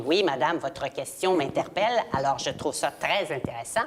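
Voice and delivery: lightly imitated TV host, very articulate; over-enunciate like an earnest interviewer; a hint of expressive host impression; Claire Lamarche. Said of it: "Claire Lamarche, qui est, qui s'exprimait beaucoup".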